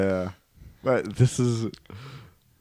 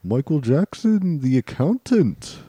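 mock judge. Judge ruling on which Michael Jackson is meant, mock judge. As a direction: play a ceremonious judge, stretching key words.

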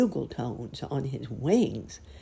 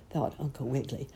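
plain reading voice

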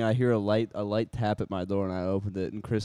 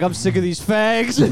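high slow mocking voice; 9 semitones higher, 6 dB louder, slower than usual. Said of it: "Chris is like".

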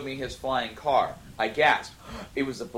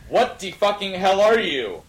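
mock yell; 7 semitones higher, 5 dB louder than usual. Acted outburst in fanfic reading.

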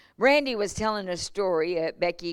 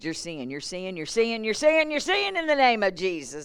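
building declaration. Retold or imitated. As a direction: declare healing, rising in pitch. Pastor declaring healing in prayer.

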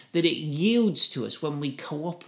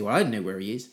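low, offhand fib; brazen bluff; 5 semitones lower, much faster than usual. Acted. Cain bluffing his way through with God, brazen. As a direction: brush off the question in a lower voice. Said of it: "bluff his way through it".

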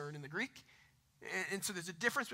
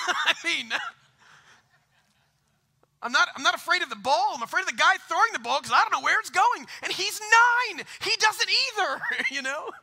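loud, higher laughing retelling; laughing loudly; 11 semitones higher, 11 dB louder than usual. Real, not acted. Preacher to congregation, laughing loudly. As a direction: laugh through it, louder and higher.

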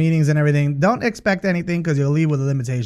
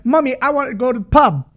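put-on high begging little girl; whiny kid pleading to go; little Irish girl; 7 semitones higher than usual. Girl begging her mom, high childish plea. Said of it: "the little Irish girl that's like".

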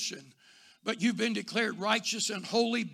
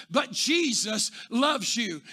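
slow tender assurance; slower than usual. Retold or imitated. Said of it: "he would just keep saying".

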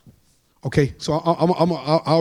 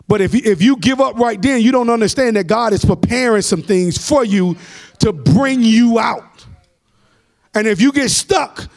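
emphatic preaching. Real, not acted. Preacher telling those who give up that God is preparing, emphatic preaching. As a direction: preach it out, stretching the key phrase.

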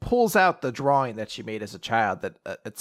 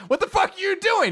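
shocked yell; 8 dB louder than usual. Retold or imitated. Daughter shocked at dad.

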